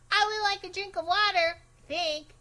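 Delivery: high and quick, a bit prim; a thirsty kid announcing her wish; polite request. Acted. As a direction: ask nicely to nobody in particular. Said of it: "I said".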